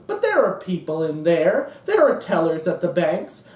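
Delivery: a hint of a baffled, prissy liberal; mock clueless liberal. Comic mocking the left as clueless, mild baffled whine. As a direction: play innocent and puzzled, lightly. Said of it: "Oh, the poor, blameless, innocent left".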